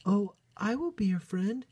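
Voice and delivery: high, loud little bunny voice; keen storybook heroine, pitched well up; eager exclamation. A narrator's reading. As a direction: pipe up eagerly as a young bunny. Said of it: "exclaimed Bot".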